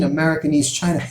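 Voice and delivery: mocking disbelief. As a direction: mimic the doubter laughing it off. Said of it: "they may laugh at that, like".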